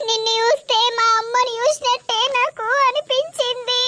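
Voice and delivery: choked up with gratitude; tearful thanks. Acted. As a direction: thank her through welling tears. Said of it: "అయ్యో ఏడవకురా లావణ్య".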